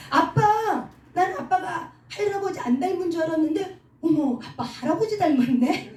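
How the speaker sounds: put-on high, laughing tease of a grown child; teasing child, laughing. Grown child teasing dad that he looks like grandpa, laughing. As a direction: giggle it out, playfully mocking dad.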